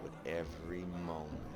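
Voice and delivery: soft, unhurried romance narration; intimate story narration. A narrator's reading. Narrator recalling his first real kiss with Nora, softly told. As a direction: murmur the love scene to the listener.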